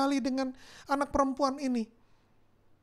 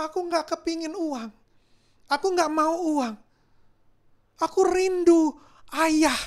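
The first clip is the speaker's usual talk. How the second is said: louder, slowed pleading that swells into a cry; tearful pleading; 3 semitones higher, 4 dB louder than usual. Acted. Girl crying to the kind man that she wants a father, tearful loud pleading. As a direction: beg for the father through tears, building. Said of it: "Anak ini mulai menangis".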